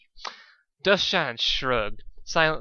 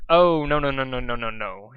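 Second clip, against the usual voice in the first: loud protest; 6 dB louder than usual. A narrator's reading. Dustshine refuses in a rush.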